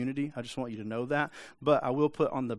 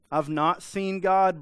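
higher, louder and slow, a smug believer; self-righteous Christian; 5 semitones higher, 6 dB louder, slower than usual. Retold or imitated. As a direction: say it with a lightly mocking holier-than-thou tone. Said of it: "brings a self-righteous Christian".

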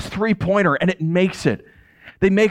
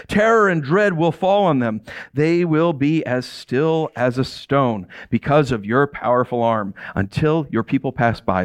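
scripture reading; 2 semitones lower than usual. Acted. Reading Israel's song to the congregation, solemn and slowing. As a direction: read the victory song with growing reverence.

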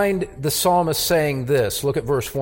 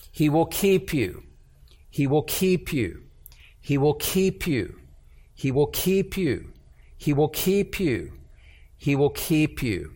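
softly repeated words of comfort, evenly spaced; calming, soothing; 4 dB quieter than usual. Acted. Preacher voicing the psalm's comfort to anxious listeners, soothing. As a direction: gently repeat it as reassurance, letting each one settle. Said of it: "It has a calming, soothing effect on you".

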